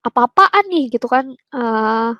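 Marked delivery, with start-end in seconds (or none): 0.1-0.9 mock angry brother. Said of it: "dia sempet marah".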